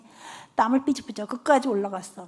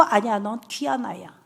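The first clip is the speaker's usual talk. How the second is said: patient reassurance; 3 semitones lower, 5 dB quieter than usual. Retold or imitated. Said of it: "꾹 참고".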